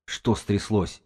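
strained, choked question; effortful, hoarse asking; squeezed out. A narrator's reading. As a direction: force the question out through a hurt throat. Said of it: "выдавил он из себя".

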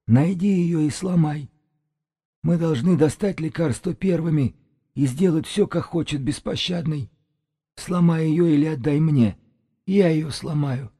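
high-pitched eerie shaman, scraping on the nerves; high, grating sorcerer. A narrator's reading. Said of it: "Голос шамана скрёб по нервам, как металл по стеклу".

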